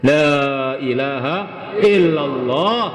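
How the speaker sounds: slow, stretched-out declaration of faith; solemn creed recitation. Real, not acted. Preacher tells the congregation the only thing left, solemn and drawn out. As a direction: draw out each phrase of the creed.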